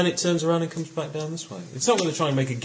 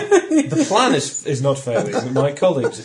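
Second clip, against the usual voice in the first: mock grandiose; 4 semitones higher, 6 dB louder than usual. Mock grand reply, laughing.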